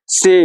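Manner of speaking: "से" as tsay, with a light t at the start; light t sound. Shown as a demonstration. Teacher shows German C to students, light t sound. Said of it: "हल्का सा टॉ का sound आता है".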